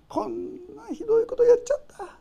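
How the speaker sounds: high, cracking with tears; tearful confession. Pretend. Believer confessing to God, tearful and high. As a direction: confess it, near crying.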